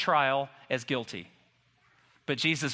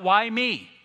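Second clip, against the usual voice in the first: raised, higher cry of complaint; 5 semitones higher, 5 dB louder than usual. Acted. Job protests his suffering, crying out. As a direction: cry it out high and loud. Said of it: "Job cries out".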